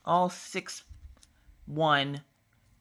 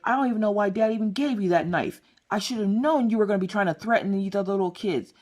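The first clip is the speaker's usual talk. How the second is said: a touch higher big-sister scolding; 4 semitones higher than usual. Retold or imitated. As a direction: nag him all the way home.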